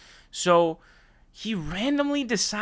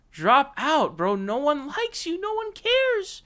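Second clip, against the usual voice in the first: exasperated yelling; 10 semitones higher, slower than usual. Real, not acted. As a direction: yell at him to quit. Furious rant at candidate.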